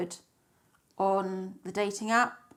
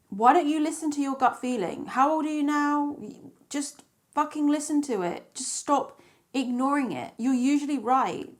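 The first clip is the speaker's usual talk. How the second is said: higher-pitched, exasperated telling-off; exasperated self-scolding; 5 semitones higher than usual. Acted. Woman telling herself to trust her gut, exasperated self-scolding. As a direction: chide yourself in a raised, pleading pitch.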